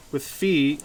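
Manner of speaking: talking while crunching a snack; words round a crunchy bite; crunching chips. Real, not acted. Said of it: "excuse my crunching".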